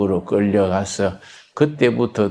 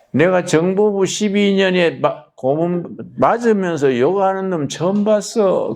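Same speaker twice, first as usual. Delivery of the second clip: 조사관 흉내; 8 semitones higher than usual. Retold or imitated. 조사관 목소리 재현.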